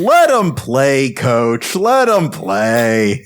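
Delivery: slow drawn-out coach call. Retold or imitated. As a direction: call it like a laid-back coach. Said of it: "James is going".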